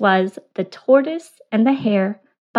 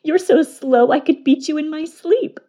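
mocking hare; 6 semitones higher, 4 dB louder than usual. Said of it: "The hare laughed".

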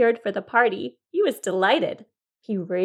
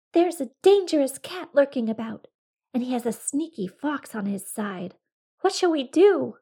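frightened rabbit; 4 semitones higher, 5 dB louder than usual. Acted. Frightened rabbit tells friends.

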